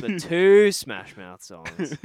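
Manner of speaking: slow emphatic. Real, not acted. Punchline, dragged out.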